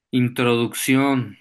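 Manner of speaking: "Introducción" slowly, final syllable stressed; última sílaba fuerte. Shown as a demonstration. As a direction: lean on the end of "Introducción". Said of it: "que suenen fuerte en su pronunciación". ("Introducción", lento, marcando la última sílaba)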